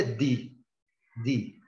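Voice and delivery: "di" with a clean tongue-tip D; English letter D, a crisp "di"; hard D. Shown as a demonstration. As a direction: say "di" with no "dji" softening. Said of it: "aqui a letra é".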